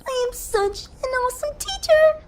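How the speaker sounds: soft, to herself; murmured self-praise under her breath; said quietly. A narrator's reading. Dash praising herself quietly, alone on the cloud. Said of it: "Dash said quietly".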